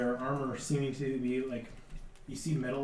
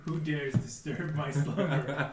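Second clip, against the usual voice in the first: grinding stone statue; slower than usual. Acted. GM repeats the guardian's challenge.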